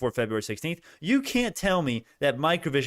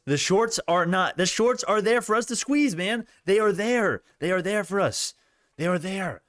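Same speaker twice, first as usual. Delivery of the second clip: pumped up; 6 semitones higher than usual. Real, not acted. Hyped squeeze on stock stream.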